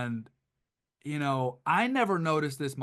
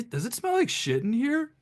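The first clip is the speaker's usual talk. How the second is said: disgusted crowd voice; 11 semitones higher, 3 dB louder than usual. Retold or imitated. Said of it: "hear somebody next to us go".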